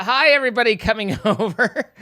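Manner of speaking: chuckling hello to the newcomers; laughing greeting. Real, not acted. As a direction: greet them through a laugh.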